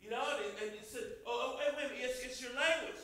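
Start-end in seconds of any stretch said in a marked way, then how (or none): 1.3-3.0 loud, rising accusation; accusing shout. Retold or imitated. Bystander loudly accusing Peter at the fire. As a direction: call him out in front of everyone.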